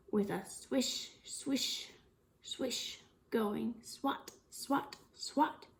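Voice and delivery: hushed, breathy sound words; whispered swish and swat. Acted. Teacher whispering the cow's tail sounds to the kids. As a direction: let each swish fade to a whisper.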